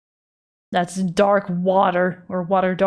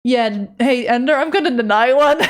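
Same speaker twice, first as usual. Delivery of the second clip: Dutch English impression; 4 semitones higher, 4 dB louder than usual. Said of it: "For when you sound like this".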